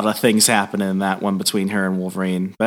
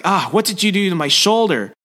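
higher-pitched aggrieved question; mock pained complaint; 7 semitones higher than usual. Peter back in his own body, mock pained complaint. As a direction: play up discovering a sore shoulder.

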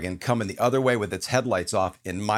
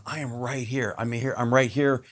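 reassuring God. Retold or imitated. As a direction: comfort the grieving gently. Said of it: "God is always going".

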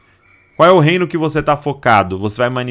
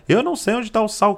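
much higher, fast whine; whiny complaint; 9 semitones higher, faster than usual. Retold or imitated. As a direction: whine like a sulky teen. Teen's sulky complaint peaks. (filho choramingando em voz aguda)

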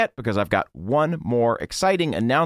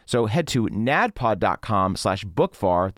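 slow ad read; 3 semitones lower, slower than usual. Shown as a demonstration. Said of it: "first take of URL".

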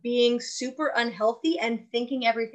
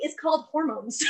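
laughing; 5 semitones higher than usual. Real, not acted. Laughing punchline.

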